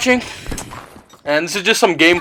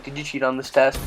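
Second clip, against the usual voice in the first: soft, calm question, imitating mom; hushed, composed mom voice; 2 semitones lower, 8 dB quieter than usual. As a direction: ask it quietly, with no accusation. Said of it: "She just very calmly".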